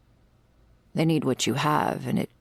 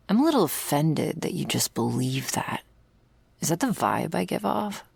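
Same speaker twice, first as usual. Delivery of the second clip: breathy whispered aside, half-joking hurt; hushed mock offence; 3 semitones higher than usual. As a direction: drop to a whisper, pretending to be wounded. Mock offence after a joke.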